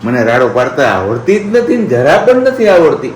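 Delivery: lightly voiced innocent baby daughter; speaking as the baby. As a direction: play the good little girl denying it. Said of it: "બાકી હું તો ડાહી દીકરી છું". (દીકરી બનીને નિર્દોષ અવાજે)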